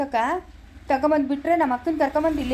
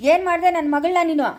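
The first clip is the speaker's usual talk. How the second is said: higher, louder accusing question; furious demand; 4 semitones higher, 5 dB louder than usual. Acted. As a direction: confront her hard over the daughter. Father confronts her over daughter.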